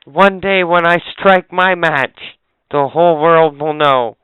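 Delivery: a hammed-up doomsday threat; mock villain. Cohost mocking a match-identifier with a mock villain's vow.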